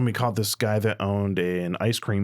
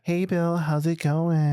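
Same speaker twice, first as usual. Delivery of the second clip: put-on gay teen boy voice; 8 semitones higher, much slower than usual. Shown as a demonstration. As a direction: soften it up and add a slight lisp. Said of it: "Let me replicate that".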